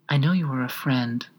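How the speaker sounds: small, slightly lifted creature voice; little voice. A narrator's reading. Unhappy gnat appealing to Alice, little voice. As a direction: speak small and close. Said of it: "the little voice went on".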